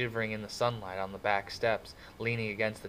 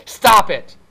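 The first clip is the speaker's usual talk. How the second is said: loud, high outburst through clenched teeth; gasped through clenched teeth; 13 semitones higher, 21 dB louder than usual. A narrator's reading. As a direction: cut them off with a sudden, tense shout. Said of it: "gasped from between clenched teeth".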